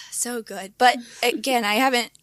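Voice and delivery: lost voice, rough and worn; hoarse voice. Real, not acted. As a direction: talk through a hoarse throat. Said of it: "my voice sounds so bad".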